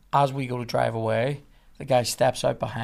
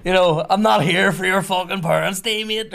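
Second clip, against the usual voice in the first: raised, indignant call through a car window; 6 semitones higher, 5 dB louder than usual. Retold or imitated. Driver to university cop out the car window, calling out. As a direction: protest loudly to someone outside. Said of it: "say to him out the window".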